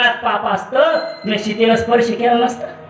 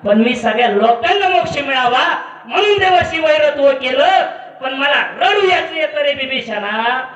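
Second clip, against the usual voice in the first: anguished outcry; 2 semitones higher than usual. Retold or imitated. Dying Ravana cries out to brother.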